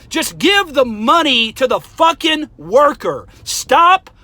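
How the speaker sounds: loud, slow, furious; getting hot. Real, not acted. Berating viewers who pay for strangers' orders, slow and furious. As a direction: drag out each word in anger. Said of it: "see, now I'm getting hot".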